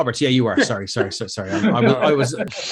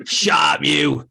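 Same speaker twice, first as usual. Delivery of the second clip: dim pompous cartoon cop. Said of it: "this guy's like".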